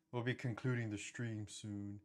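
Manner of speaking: slow, solemn ghost-hunter narration; paranormal investigator voice. Acted. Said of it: "my paranormal investigator voice".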